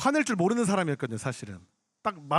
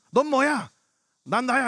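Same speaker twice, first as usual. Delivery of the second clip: higher, punchy mock challenge; retold quarrel; 4 semitones higher, 3 dB louder, slower than usual. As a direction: act out a confrontational comeback. Acted quarrel with the heckler.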